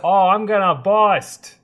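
hammed-up Boston bedroom talk; South Boston accent. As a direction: play an overexcited lover in Boston accent. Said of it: "doing the South Boston accent".

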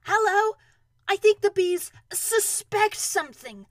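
high, loud, urgent warning; strained, carrying voice; calling down. Acted. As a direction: call it down to a friend below. Pooh calls down urgently from balloon.

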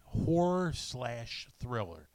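slow, leaning hard on "slash"; stress on slash. Shown as a demonstration. Giving a genre clue to the guesser, stressing "slash". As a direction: punch "slash" so it sounds like a slasher film. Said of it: "I emphasize the word slash".

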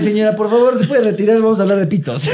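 mock polite request. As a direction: politely shoo the listener's mother away, hammed up. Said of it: "lo escucha mi familia". (a la señora de la familia, pidiéndole en broma que se retire)

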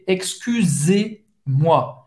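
Excusez-moi slow, with the S between vowels said as a clear Z; voiced S as Z. Shown as a demonstration. Teacher models the Z sound of Excusez-moi slowly. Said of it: "S entre duas vogais tem um som de Z".

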